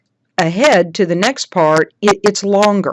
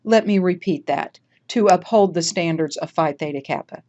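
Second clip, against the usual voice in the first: composed, measured correction; solemn, with decorum. Shown as a demonstration. Leader recovering after confusion in the oath, solemn and composed. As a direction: restate the line solemnly, unhurried. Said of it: "solemnly and with decorum say".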